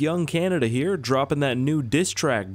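put-on Canadian accent. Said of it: "could you imagine a Canadian diss track?".

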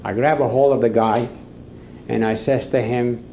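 usual speaking voice

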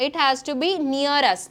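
slow, clearly spaced words; slow, careful classroom English; slow model sentence. Shown as a demonstration. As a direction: spell out the rule slowly. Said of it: "നമ്മുടെ അടുത്തായിരിക്കണം".

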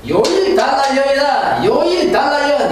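hammed-up shouted curse; mock scolding shout. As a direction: yell it like a scolding in-law. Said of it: "시어머니 ... 욕을".

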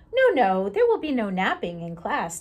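loud, firm no, no; firm declaration. Acted. Bird declaring no napping in class, loud and firm. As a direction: lay down the classroom rule. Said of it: "declared the bird".

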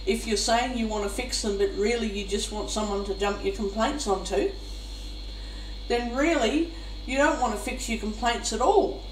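normal talking voice

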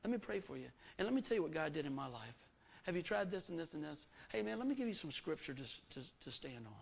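compassionate friend. Retold or imitated. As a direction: gently comfort a struggling friend. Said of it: "I go".

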